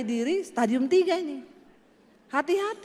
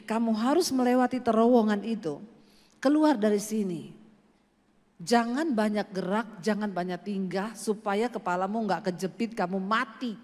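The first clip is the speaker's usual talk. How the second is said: lower, stern voice; voice from the vision; 5 semitones lower than usual. Retold or imitated. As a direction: command him firmly from the light. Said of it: "ada suara yang bilang begini". (suara tegas dan rendah dari penglihatan)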